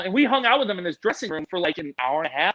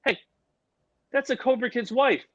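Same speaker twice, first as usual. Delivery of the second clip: raised-pitch mock indignation; Vince Vaughn stepping in; 4 semitones higher than usual. Actor halts crew moving the wife, raised voice in mock protest. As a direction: call out like an actor defending a guest. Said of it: "Vince Vaughn, he looks, and he goes".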